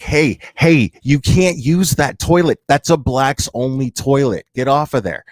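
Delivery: a touch of a sharp bark at her; mock stern warning. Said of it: "and I'm like".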